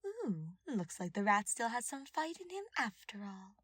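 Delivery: sneering villainess. Acted. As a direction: sneer it with mock pity. Villain Cornelia voiced.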